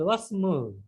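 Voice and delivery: ওয়াসমু run together as "wasmu"; linking hamza dropped. Shown as a demonstration. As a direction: glide from wa straight into smu in ওয়াসমু. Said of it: "হামজাতুল ওয়াসল".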